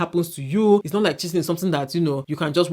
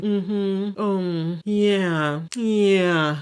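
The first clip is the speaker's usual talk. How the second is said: noncommittal mm-hmm, lightly voiced; mimicking the host who asks nothing; vague host; 3 semitones higher, much slower than usual. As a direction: imitate a host nodding along vaguely. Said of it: "She'll be like".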